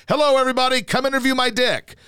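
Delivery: cocky player voice. Retold or imitated. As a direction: boast like a naked showoff. Cocky defensive back in locker.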